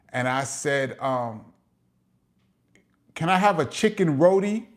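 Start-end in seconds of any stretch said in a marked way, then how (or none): 3.1-4.7 put-on New York accent turning the t in "roti" into a tap. Ordering food with his Trini friend, New York-accented "roti". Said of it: "that was my New York accent".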